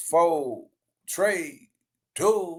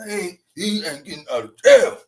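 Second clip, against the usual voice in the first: "He ain't getting out of jail" said louder with a rise on "jail"; emphatic repeat; 4 dB louder than usual. Acted. Host insisting to viewers, louder and emphatic. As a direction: press the point home louder.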